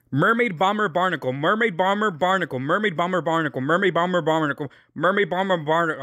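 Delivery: rattling the tongue twister off quickly; fast tongue twister. Shown as a demonstration. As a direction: race through it as fast as possible. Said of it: "I'm gonna try to say all of these as fast as I can".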